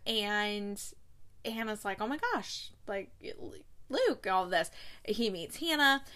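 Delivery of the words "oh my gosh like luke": high, gushing greeting; excited squeal. Retold or imitated. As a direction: squeal his name in delight. Hannah squeals at seeing Luke.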